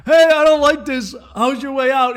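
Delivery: loud, high mock Barbara Walters; shrill protest. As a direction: squawk it in protest.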